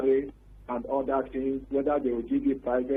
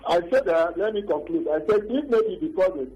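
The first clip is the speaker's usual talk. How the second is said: louder, raised over a bad phone line; speaking louder; 3 semitones higher than usual. Real, not acted. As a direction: project so the host can hear. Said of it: "Can you speak louder".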